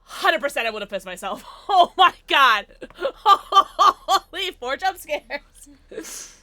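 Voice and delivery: slow, laughing through the words; laughing relief. Real, not acted. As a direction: laugh off the fright. Laughing after scare.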